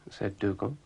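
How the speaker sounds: ordinary delivery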